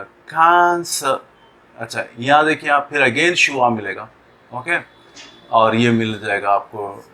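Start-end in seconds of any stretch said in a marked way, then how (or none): 0.0-1.2 कान स said very slowly, a weak schwa; schwa demo. Shown as a demonstration. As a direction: stretch कान स with a light schwa.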